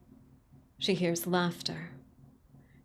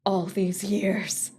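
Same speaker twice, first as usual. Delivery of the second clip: slow despair; slower than usual. Acted.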